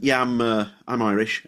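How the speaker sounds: lightly put-on Cockney voice; thick Cockney accent. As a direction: mimic a Cockney claiming to be Irish. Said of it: "like, thick Cockney accent".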